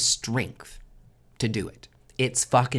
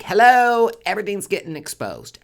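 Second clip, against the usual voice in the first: very high, loud sing-song "Hello" that drops back; the judgment card shouting a wake-up; loud wake-up call; 9 semitones higher, 8 dB louder than usual. Acted. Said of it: "judgment, it's like".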